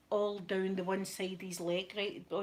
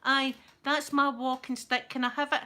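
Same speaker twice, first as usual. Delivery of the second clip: put-on slow, louder drunk claim; drunk pleading; 4 semitones higher, 5 dB louder, slower than usual. Drunk man claiming the putter from the nurse, slow. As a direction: demand your stick back. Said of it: "and he went".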